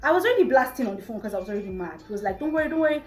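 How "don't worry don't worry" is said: imitating date. Boyfriend reassuring on the phone.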